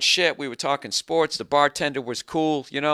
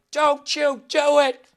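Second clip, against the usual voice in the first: slow, high, dramatic movie line; officer and a gentleman; 11 semitones higher, 4 dB louder, slower than usual. Retold or imitated. Stopping the bartender swiping the card, dramatic movie hero. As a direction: deliver it like a heroic film officer. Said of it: "like an officer and a gentleman".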